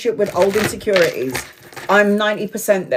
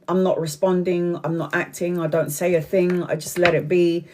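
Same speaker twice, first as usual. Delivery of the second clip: softer, evenly calm retelling of a friend; really calm; 2 semitones lower, 4 dB quieter than usual. Retold or imitated. Friend saying she lets it be, calm. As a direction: quote them calmly and quietly. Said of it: "she's all there really calm".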